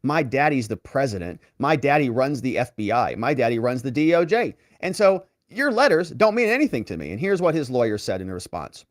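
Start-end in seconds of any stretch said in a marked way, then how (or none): 0.0-7.1 mock spoiled son. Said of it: "Hunter's lawyers ... basically like".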